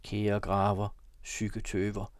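measured poetic reading; poem recitation. A narrator's reading. Reads a long poem.

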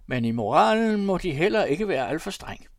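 high, loud, wheedling appeal; entreating, lifted voice; pleading. A narrator's reading. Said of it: "lagde han bedende til".

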